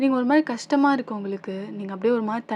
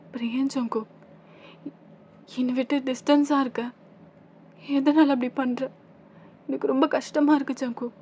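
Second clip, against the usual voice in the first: higher, plaintive, halting plea; tearful pleading; 4 semitones higher than usual. Acted. Wife begging Jungkook not to stay away, tearful pleading. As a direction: beg him, on the edge of tears. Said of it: "ஒரு மாதிரி அழுகையா வந்துட்டு".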